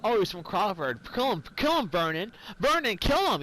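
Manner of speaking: high, urgent mimicry of a goading bystander; mock egging-on. Retelling a bystander urging Vernon to shoot, high mock goading. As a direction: imitate someone pestering in another's ear. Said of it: "was in his ear talking about".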